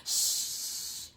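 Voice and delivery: unvoiced hush; shushing. Bear hushes Nora so the baby keeps sleeping, whispered. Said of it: "said Bear".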